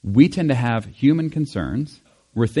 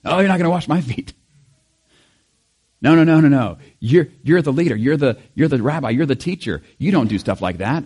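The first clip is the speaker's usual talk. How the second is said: loud, higher-pitched flustered protest; an urgent no, no, no, louder and higher; Peter protesting; 3 semitones higher, 5 dB louder than usual. Retold or imitated. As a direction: push back in alarm, refusing firmly. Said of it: "And Peter, once again".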